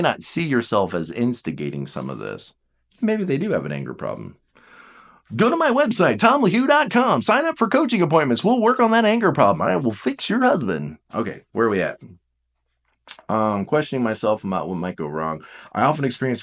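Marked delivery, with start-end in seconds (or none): 5.3-11.0 mock ad pitch.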